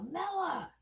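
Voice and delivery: high call across the house; yelling a name. Retold or imitated. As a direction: call her name down the hall. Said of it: "and I yell".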